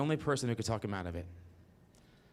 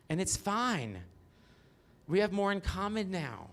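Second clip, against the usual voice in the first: a hint of a sweet, higher Southern mom; lightly voiced mom; 5 semitones higher than usual. Mom reassuring her crying son, lightly voiced, a bit higher. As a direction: play the doting mother, slightly up in pitch.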